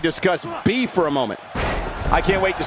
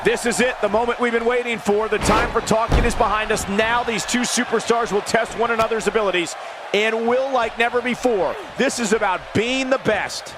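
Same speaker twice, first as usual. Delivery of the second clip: raised, pumped-up play-by-play; hyped commentator; 5 semitones higher than usual. Acted. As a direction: sell the big moment. Commentator hypes the match start.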